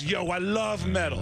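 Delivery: high, eager mimicry of a fan; imitated gushing fan; enthusiastic fan impression. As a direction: imitate an excited metalhead. Retold metal fan's enthusiasm.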